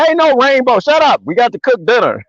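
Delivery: high, dismissive dad comeback, dropping at the end; mock scolding dad. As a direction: brush off an excited son in mock annoyance. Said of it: "I don't speak to him like that".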